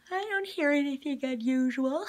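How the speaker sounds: put-on high, loud, bored child; bored complaint. A narrator's reading. Constance complains to the grown-ups, high and loud. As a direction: say it like a bored kid. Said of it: "Constance gave a loud yawn".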